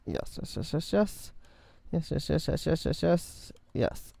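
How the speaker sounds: whispered yeses. Real, not acted. Quietly celebrating a block placement.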